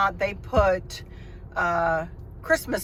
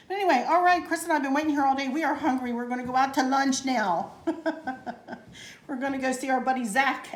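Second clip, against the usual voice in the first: bubbly and upbeat; 6 semitones higher, faster than usual. Real, not acted. Hungry, rushing off to lunch.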